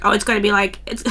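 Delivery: a lightly voiced, ditzy American girl at dinner; put-on American girl voice. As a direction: slip into a silly airhead voice for a beat, then drop it. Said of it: "I don't know why I did that voice".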